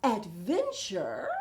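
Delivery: gasp, then breathe the word softly; hushed wonder on Adventure; awed gasp. Acted.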